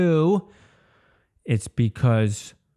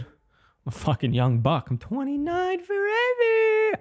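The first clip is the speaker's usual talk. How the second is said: yawning words; slower than usual. Real, not acted. Yawning voice, mock youthful claim.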